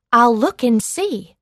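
bright eager promise to help; excited. Acted.

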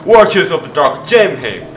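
loud, excited begging; pleading hard in mid-game; urgent pleading. Real, not acted. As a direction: beg for it with punchy bursts. Begging for the same move.

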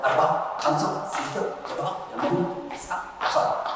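soft, half-whispered count; quiet counting. Acted. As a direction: count under the breath, gently. Quiet counting during exercise.

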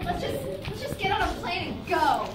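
lifted, bright dubbing voice; high dubbed character voice. Acted. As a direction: voice a dreamy movie lover. Dubbing the couple's scene.

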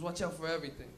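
low, soft ominous warning voice; hushed, low and menacing; the dealer repeating his warning, low and soft. Retold or imitated.

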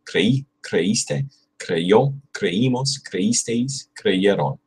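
"creímos" with the weight on "í", likewise through the list; second-syllable stress. Shown as a demonstration. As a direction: stress the second syllable: "Creí, creíste, creyó", each form set apart. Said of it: "Use the accent on the second syllable".

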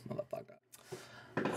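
slow whispered cuss. Real, not acted. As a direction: whisper it slowly, cheekily. Cheeky whispered insult.

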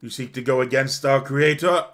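beg, then build to a loud challenge; desperate appeal to reason; pleading councilor. Acted.

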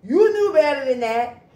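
loud, scolding voice of God. Retold or imitated. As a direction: scold her like a disappointed God. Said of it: "he would be like".

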